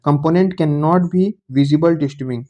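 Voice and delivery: reading a definition out word by word, slowly; slow dictation. Shown as a demonstration. Teacher dictating a definition to the class, very slowly. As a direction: dictate it slowly so students can copy.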